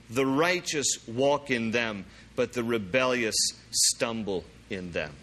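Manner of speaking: slow, deliberate verse reading; slow scripture reading. Real, not acted. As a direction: read each clause slowly, pausing between them. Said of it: "I'm gonna read this slowly".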